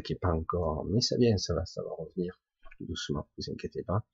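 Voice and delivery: weak hoarse voice still recovering; hoarse, barely there voice, fading to a whisper. Real, not acted. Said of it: "j'ai encore la voix qui".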